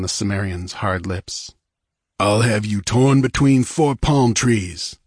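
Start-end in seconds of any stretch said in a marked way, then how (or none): 2.2-5.0 calm. Acted. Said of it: "said the Cossack calmly".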